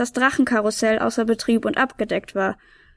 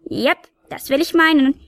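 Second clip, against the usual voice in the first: proud; 4 semitones higher than usual. Acted. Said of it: "verkündete die Nikolaus stolz".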